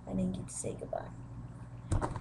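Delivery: quiet, slow unvoiced aside; soft aside. Real, not acted. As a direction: drop to a whisper. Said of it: "whispered aside".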